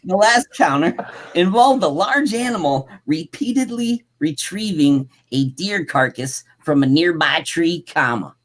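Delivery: deliberate, punched-up sentence reading; emphatic read-aloud. A narrator's reading. Host rereading the deer carcass sentence, emphatic read-aloud. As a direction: lean on every phrase as you read.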